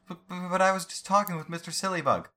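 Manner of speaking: put-on very high crying-kid whine; hammed-up sobbing kid voice; whiny child voice. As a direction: protest like a tearful little boy. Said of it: "I hate that voice".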